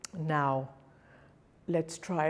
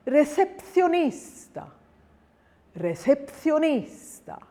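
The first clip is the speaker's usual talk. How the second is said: recepcionista with a long, strong NIS; higher pitched, leaning on NIS in recepcionista; penultimate stress; 8 semitones higher than usual. Shown as a demonstration. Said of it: "then the penultimate syllable".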